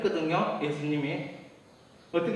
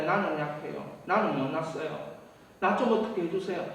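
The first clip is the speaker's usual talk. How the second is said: imitating whiny child; 6 semitones lower, 7 dB quieter than usual. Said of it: "자식이 부모 볼 때".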